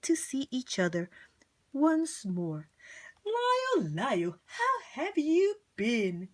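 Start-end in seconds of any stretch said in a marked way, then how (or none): 3.2-6.3 fond reunion call; a hint of happy tears; delighted greeting. Valenti greets Lyle again.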